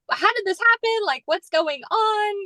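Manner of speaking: high, bewildered questions, slowing at the end. Retold or imitated. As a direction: sound baffled and thrown. Reliving confusion over the news.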